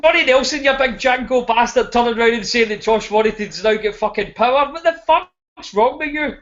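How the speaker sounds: addressing Johnny Nelson with a scornful rant; ranting call-out. Real, not acted. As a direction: tear into him. Calling out a pundit.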